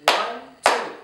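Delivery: ONE, TWO as separate even beats; two-beat count. Shown as a demonstration. Teacher showing two syllables, clapped count of ONE, TWO. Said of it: "what did I do with my hands".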